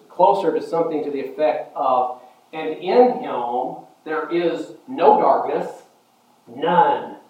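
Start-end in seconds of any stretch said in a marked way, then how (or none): 2.5-7.2 slow "no darkness", then a separate "none"; deliberate, emphatic "none" after the pause; emphatic denial. Shown as a demonstration. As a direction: pause before "none" and set it apart as its own word. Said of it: "It's emphatic".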